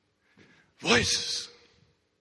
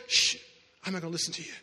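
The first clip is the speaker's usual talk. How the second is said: quiet refusal; 5 semitones lower, 6 dB quieter, much faster than usual. Acted. Faith hushing the voices.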